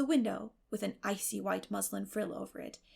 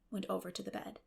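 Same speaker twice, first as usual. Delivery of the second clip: ordinary delivery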